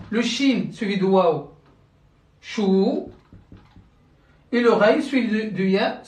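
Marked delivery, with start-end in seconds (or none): 2.4-2.6 "shu" with a long held oo; long vowel. Shown as a demonstration. Teacher showing shin followed by waw, "shu" held long. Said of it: "suivie d'une voyelle longue".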